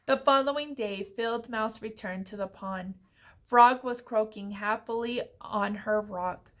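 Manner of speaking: measured picture-book reading; story narration. A narrator's reading. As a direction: read clearly to little children, phrase by phrase.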